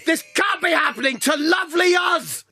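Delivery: desperate yelling, slowed on the first line; distraught shout. Acted. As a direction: cry out in disbelief. Pearson distraught at news.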